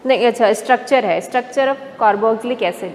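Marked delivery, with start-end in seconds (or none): 1.3-2.9 very slow, each syllable drawn out for notes; slow dictation. Shown as a demonstration. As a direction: spell the name out slowly for the class. Teacher announcing topic heading. (बहुत धीरे, लिखवाते हुए)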